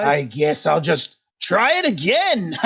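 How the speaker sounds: huffy, hammed-up resolve; exasperated villain wizard. Wizard after a missed bolt, theatrically exasperated. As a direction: swoop theatrically into another try.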